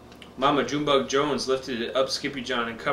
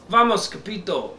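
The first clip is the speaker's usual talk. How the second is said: crying out; 3 semitones higher than usual. Acted. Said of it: "they cried".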